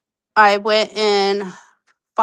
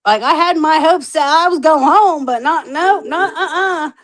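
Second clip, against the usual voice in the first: rueful laugh; 6 semitones higher, 4 dB louder than usual. Real, not acted. Hopes dashed, laughing.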